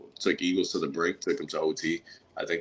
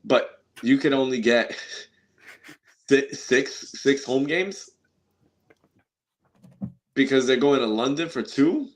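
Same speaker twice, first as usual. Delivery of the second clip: indignant outcry; 7 semitones higher, 5 dB louder than usual. Real, not acted. Indignant fan complaint.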